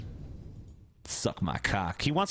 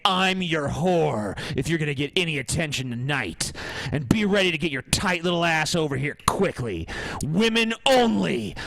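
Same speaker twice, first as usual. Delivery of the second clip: aggressive macho voice. Acted. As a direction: bark orders like an alpha. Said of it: "This is how you fucking talk to a woman".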